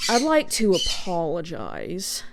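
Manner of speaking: slow, measured mock apology; lightly voiced prim church lady. Imitating aunt's gaslighting apology, slow church-lady manner. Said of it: "in church lady mode".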